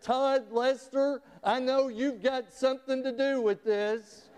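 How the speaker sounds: a hint of a teacher catching a prankster; stern teacher. Teacher calling out the boys she suspects, lightly acted stern voice. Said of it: "she said".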